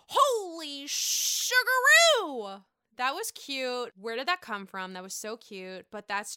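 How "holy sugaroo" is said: high, loud, slow gush; Ramona impression. Host imitates Ramona gushing at the inn, slow and high. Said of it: "She's like".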